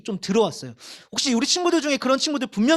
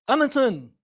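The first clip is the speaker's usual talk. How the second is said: ordinary talk, nothing marked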